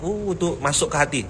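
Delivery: ordinary delivery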